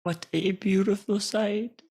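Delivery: hushed, mildly theatrical awe; awed admiration. Acted. Theatergoer taking in the view, awed.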